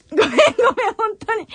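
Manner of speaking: words caught in the throat; holding back tears, barely audible; choked up. Real, not acted. ごめんごめん, choking up on air.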